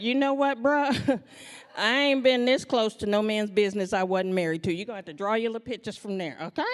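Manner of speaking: loud sassy refusal, fast at the end; loud sassy back-off-bruh; sassy pushback. Retold or imitated. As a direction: tell him off with attitude. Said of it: "I was like".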